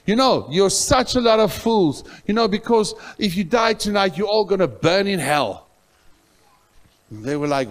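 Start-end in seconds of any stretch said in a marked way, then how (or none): 0.1-5.7 high, loud preacher's rebuke; loud retold rebuke to mocking men; shouting rebuke. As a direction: blast them with it, much higher and louder. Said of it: "And I spoke and I said".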